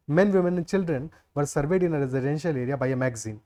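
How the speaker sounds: reading the question out word by word; slow read-aloud. Shown as a demonstration. Teacher reads the English question slowly to students. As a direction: dictate it slowly to the class.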